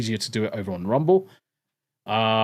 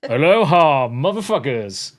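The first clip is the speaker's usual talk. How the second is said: loud greeting; 6 dB louder than usual. Real, not acted.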